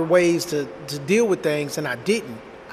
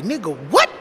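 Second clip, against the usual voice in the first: incredulous "what?" leaping up at the end; indignant, rising double-take; retold disbelief. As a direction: react in mock outrage to what was overheard. Father reacts to son's secret.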